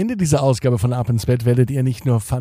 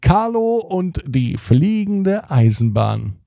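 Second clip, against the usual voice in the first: announced title; 6 semitones higher, slower than usual. Acted. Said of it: "hier ist die Geschichte".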